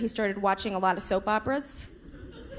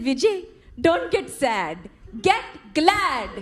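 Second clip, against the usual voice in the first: mom quoting a commercial; 3 semitones higher, slower than usual. Retold or imitated. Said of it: "And she said".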